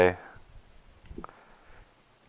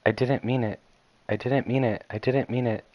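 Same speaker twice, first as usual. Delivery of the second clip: repeated quiet apology; 5 dB quieter than usual. Acted. Yuri panics after the fight.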